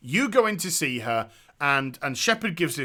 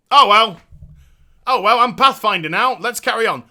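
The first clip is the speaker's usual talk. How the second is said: mock indifference; 2 semitones higher, 7 dB louder than usual. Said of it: "And you kind of like".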